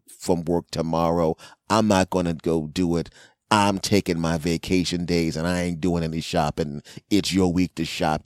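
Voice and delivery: lightly voiced bossy wife. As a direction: mildly nag the husband. Wife bossing husband.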